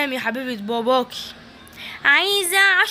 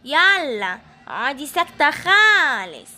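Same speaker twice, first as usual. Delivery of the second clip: put-on a lowered, slow menacing old woman; evil granny threat; 2 semitones lower than usual. Evil granny threatening the girl she kidnapped, low and slow. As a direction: growl threats down at the little captive.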